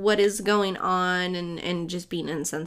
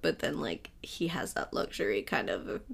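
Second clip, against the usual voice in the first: whispering; 7 semitones lower, 9 dB quieter than usual. Real, not acted. Gossipy aside about a rapper.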